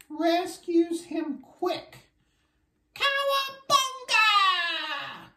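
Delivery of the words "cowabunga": drawn-out, higher cowabunga; gleeful cry. Pretend. Child acting the rescue jump: slow excited yell. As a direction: yell it slowly like a surfer diving in.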